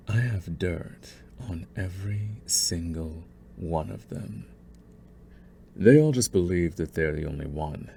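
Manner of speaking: a calm, controlling schemer toying with a captive; scheming villain. Acted. Villain gloating to his captured rival's daughter, calm menace. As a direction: savour every threat, unhurried and possessive.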